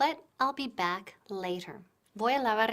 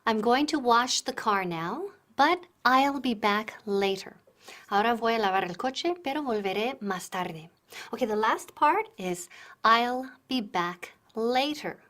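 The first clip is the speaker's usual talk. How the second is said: projecting, much louder; louder teaching; 6 dB louder than usual. Real, not acted. Teacher projecting the last part of the lesson. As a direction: project to the back of the room.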